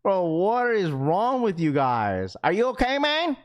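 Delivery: lightly voiced dad, rising high on the question; a hint of an exasperated father; dad's concerned scolding. Streamer playing dad checking on chat, mock concern. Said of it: "That's what my dad would say".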